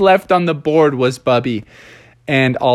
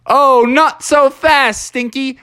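Bubby's comeback; 9 semitones higher, 3 dB louder, slower than usual. Acted. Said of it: "And he went".

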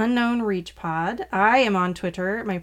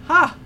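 mock Bendu ha; 8 semitones higher, 9 dB louder than usual. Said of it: "I love his ha's".

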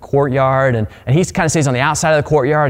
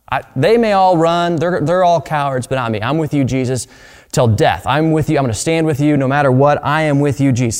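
earnest, insistent declaration, raised a little; bold vow; 2 semitones higher than usual. Acted. Peter vows to stay with Jesus till death, bold and insistent. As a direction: swear loyalty with rising force. Peter acted boldly vowing loyalty.

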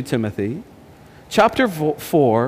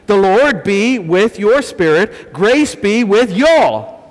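put-on a light American Southern accent, slow on "Grace be with y'all"; slower than usual. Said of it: "Let me read it in the American translation".

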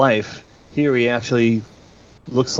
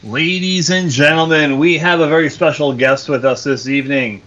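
announcer voice; 3 semitones higher than usual. Acted. Announcer introduces guest.

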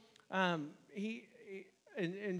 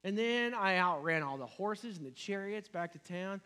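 complaining; 3 semitones higher, 4 dB louder than usual. Retold or imitated. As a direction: list your deeds to God in a put-upon voice. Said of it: "Here's Elijah's list".

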